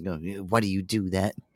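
soft, irritated, annoyed scolding tone. Retelling how the speaker's mom would react: imitating irritated mom. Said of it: "My mom would get so fucking irritated".

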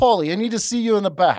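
put-on New York accent. Retelling the club owner calling him to the back: New York accent imitating Joe. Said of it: "never lost the New York accent".

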